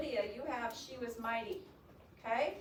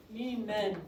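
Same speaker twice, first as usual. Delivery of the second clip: "mean men" with "mean" punched louder; stress on mean; 5 dB louder than usual. Shown as a demonstration. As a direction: hit "mean" hard before "men". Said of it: "notice how I stressed mean men".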